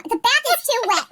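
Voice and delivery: mock toddler tantrum. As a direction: draw it out like a mildly fussing toddler. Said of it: "my toddler is tantruming".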